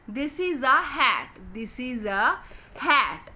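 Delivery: "This is a" very slow, a pause, then "hat"; slow word. Shown as a demonstration. Teacher to kids, naming the picture slowly. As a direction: spell out "This is a hat" slowly with a beat before "hat". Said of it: "अब हमने हैट कैसे लिखना है".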